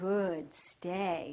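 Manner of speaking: calm, level, unexcited praising voice. Speaker praises the dog Sunny during a stay exercise, calm, even praise voice. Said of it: "my praise voice comes out, it's not a happy, excited voice".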